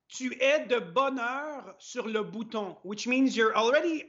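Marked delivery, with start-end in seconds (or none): 0.1-2.8 "tu es de bonne heure sur le bouton" said slowly, each word clear; slow careful spelling-out. Shown as a demonstration. Explaining the full phrase to his English-speaking co-host, slowly. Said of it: "basically what it says is".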